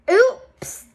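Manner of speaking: loud, high-pitched oops; dismayed oops. Acted. Reader voicing Bean botching her sign, dismayed. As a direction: yelp it at the botched letters.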